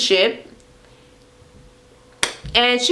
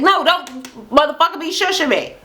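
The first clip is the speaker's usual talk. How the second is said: mock indignant; 6 semitones higher than usual.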